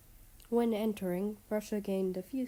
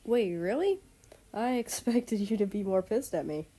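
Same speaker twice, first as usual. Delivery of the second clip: surprised; 2 semitones higher, 4 dB louder than usual. Acted. Man surprised by calm reply.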